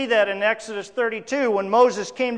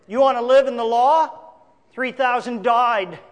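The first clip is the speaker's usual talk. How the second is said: forceful warning; 4 dB louder than usual. Shown as a demonstration. Preacher warns of living under the law, forceful. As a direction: throw the question out hard, then land it heavily. Law's death set against grace's life.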